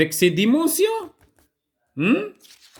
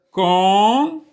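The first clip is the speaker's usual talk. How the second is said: "Kangourou" as three long, widely spaced syllables; 4 dB louder than usual. Shown as a demonstration. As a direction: stretch out kan, gou, rou in "Kangourou", pausing after each. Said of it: "on va décomposer ce mot kangourou".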